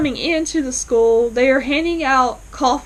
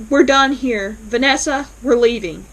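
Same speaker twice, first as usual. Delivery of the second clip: curt loud exit; 5 dB louder than usual. Retold or imitated. Father storms out of argument.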